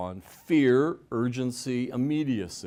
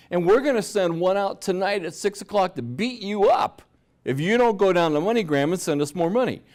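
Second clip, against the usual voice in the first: scammer threat; 6 semitones higher, 6 dB louder than usual. Retold or imitated. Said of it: "And they said".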